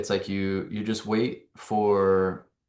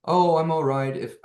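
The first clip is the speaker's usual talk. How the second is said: put-on a quick, higher South African accent; half-done South African accent, pitched up; 7 semitones higher, 4 dB louder than usual. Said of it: "he's got a South African accent".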